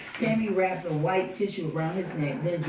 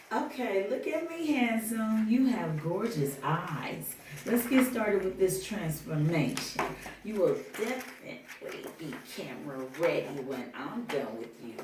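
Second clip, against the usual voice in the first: flirty makeup artist; 3 semitones higher than usual. Acted. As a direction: coax him sweetly. Voices Renee flirting.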